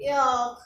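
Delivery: ऑफ said low with rounded lips; ऑफ, the h and x silent; French word heureux. Shown as a demonstration. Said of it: "क्या बोलेंगे?". (French उच्चारण में ऑफ)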